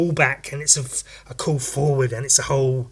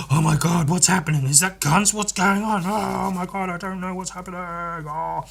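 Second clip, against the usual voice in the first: panicked scientist; 5 semitones higher than usual. Retold or imitated.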